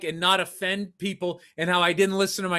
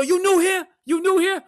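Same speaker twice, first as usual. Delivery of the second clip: put-on high-pitched insistent Asian accent; imitated heavy Asian accent, pitched up; 11 semitones higher, 5 dB louder than usual. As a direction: pester him as an Asian-accented cabbie. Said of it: "but a heavy accent".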